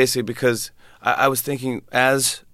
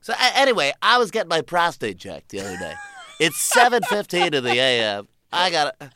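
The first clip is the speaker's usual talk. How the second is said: much higher, hammed-up shock jock; 5 semitones higher than usual. DJ oversharing on morning radio, hammed-up. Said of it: "They're like".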